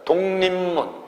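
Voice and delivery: 독립문 said as "동님문"; correct pronunciation demo. Shown as a demonstration. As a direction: model 독립문 with every stop turned nasal. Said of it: "이렇게 발음해야 됩니다".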